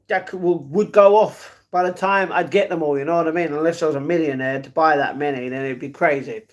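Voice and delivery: ordinary delivery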